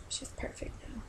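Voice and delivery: whisper. Real, not acted. Mom whispers about her newborn daughter, soft whisper. Whispering over sleeping baby.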